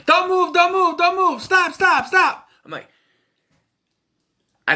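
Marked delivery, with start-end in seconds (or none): 0.0-2.5 shrieky high imitation of frantic yelling; loud, hammed-up movie panic; mock panicked yelling. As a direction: shout it rapid-fire, pitched way up. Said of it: "And they're yelling".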